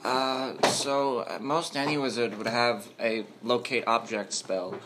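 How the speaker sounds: thin, nervous librarian voice; a lightly voiced scrawny librarian. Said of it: "I get to use my scrawny librarian voice again".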